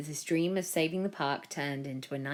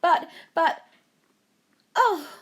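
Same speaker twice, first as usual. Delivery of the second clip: gushing woman in black; 9 semitones higher, 8 dB louder than usual. A narrator's reading. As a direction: swoon over the Prime Minister. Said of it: "the woman in black yelled".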